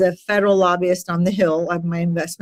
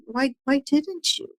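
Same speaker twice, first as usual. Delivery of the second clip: caring concern; 7 semitones higher, 4 dB quieter than usual. Retold or imitated. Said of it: "from such a place of caring and concern".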